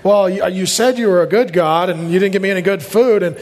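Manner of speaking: low, run-on mock griping; hammed-up frustrated complaint; frustrated whining. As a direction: ramble on like a put-out grumbler. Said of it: "I'm very frustrated about that".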